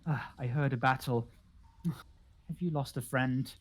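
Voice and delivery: halting, tentative introduction with gasps and sighs; lightly voiced odd recluse; gentle eccentric host. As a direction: introduce yourself breathily, then sympathise.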